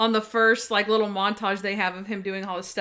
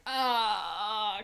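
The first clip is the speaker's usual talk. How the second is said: imitating a pained groan; mock groan of soreness; a sore man's whimper; 4 dB quieter than usual. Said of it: "Monk is like".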